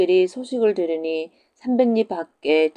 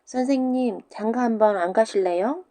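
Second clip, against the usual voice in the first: put-on higher teasing child voice; mischievous pupils; 4 semitones higher than usual. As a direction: tease the teacher like a cheeky kid. 장난기 많은 학동들. (장난스러운 아이 목소리)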